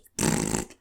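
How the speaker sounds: breathy blown raspberry; second leprechaun raspberry. Retold or imitated. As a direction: blow a cheeky raspberry. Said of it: "Blowing raspberries, everybody".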